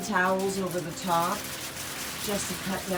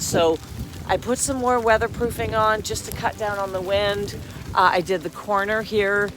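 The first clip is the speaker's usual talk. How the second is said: raised voice outside in the storm; loud over wind; 5 dB louder than usual. Real, not acted. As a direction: keep talking up over the wind.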